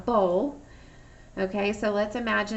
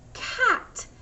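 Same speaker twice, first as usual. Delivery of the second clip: cat called out much higher; child's answer; 13 semitones higher than usual. Shown as a demonstration. Teacher voices the children answering, high. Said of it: "you're gonna tell me".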